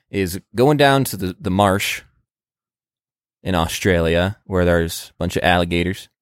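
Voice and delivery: a hint of an American southern accent. Guessing at an Australian word, lightly slipping into a southern accent. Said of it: "I'm doing a southern accent for that".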